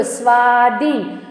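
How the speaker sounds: સ્વાધીન with a long held "aa" in સ્વા; સ્વાધીન sounded out for the class; sounded-out word. Shown as a demonstration. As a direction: stretch both long vowels of સ્વાધીન. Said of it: "શબ્દ બોલો".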